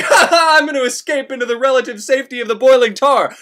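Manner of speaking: gleeful escape. Retold or imitated. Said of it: "he's like".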